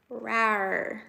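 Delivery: a playful little "Rawr" growl; tiger cub voice. Pretend. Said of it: "a little tiger".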